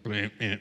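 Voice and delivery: low dud buzzer imitation; imitated failing-mechanism noise. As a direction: mimic a button that fails. Imitates the dead button's noise.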